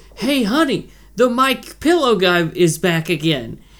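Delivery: acted-out frightened, alarmed, scared voice. Retelling a man in a MyPillow commercial speaking to his partner, mock-scared voice. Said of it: "he says it with an energy that does sound scared".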